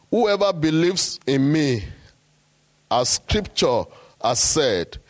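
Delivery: slow, measured scripture reading; solemn reading of the Bible verse. Acted. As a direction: lay each phrase of the verse down slowly.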